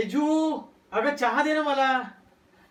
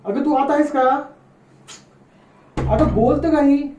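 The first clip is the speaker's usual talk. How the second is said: calling out; 4 dB louder than usual. Acted. Calling wife through locked door.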